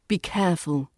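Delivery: "Be careful." falling to a firm finish; falling intonation. Shown as a demonstration. English teacher demonstrating firm commands, falling tone on "careful". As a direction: let careful drop, confident and clear. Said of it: "you use a falling intonation at the end for a".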